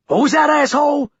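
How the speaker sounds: loud, high, hostile snarl. A narrator's reading. Governor snarling at the prisoner, loud and high. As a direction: spit the challenge at him. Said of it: "the governor snarls at him".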